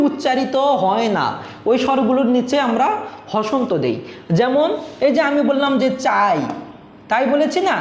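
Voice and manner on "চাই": চাই with a full আ gliding into a short ই; full আ, clipped-off half ই in চাই; half-vowel glide. Shown as a demonstration. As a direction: say চাই as one syllable, the final ই only half sounded. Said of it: "হসন্ত দিয়ে উচ্চারণ করেছি".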